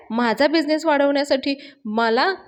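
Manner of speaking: high, incredulous mock outrage; retold irritation. Garage owner confronts Payal about the loan, irritated. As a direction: pitch climbs into indignant questioning. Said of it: "पाण्या तिच्यावर खूप चिडत असतो आणि म्हणत असतो".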